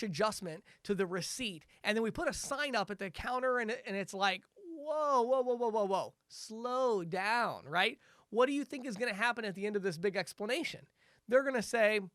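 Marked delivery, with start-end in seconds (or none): 4.6-7.7 overwhelmed prospect. Retold or imitated.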